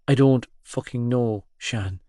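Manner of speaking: choked out. Acted. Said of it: "I choked out".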